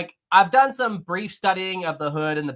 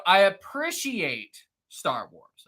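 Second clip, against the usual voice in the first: "appreciate" stretched out slowly; slow, deliberate "appreciate", as a guarded concession; careful emphasis; 3 semitones higher, much slower than usual. Real, not acted. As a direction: lean hard and long on "appreciate". Measured, careful concession to fan.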